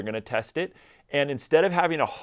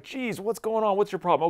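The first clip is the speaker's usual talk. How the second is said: mildly exasperated owner; 8 semitones higher than usual. Acted. Owner to a dog pulling on the leash, mildly exasperated. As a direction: lightly act out being fed up with the dog.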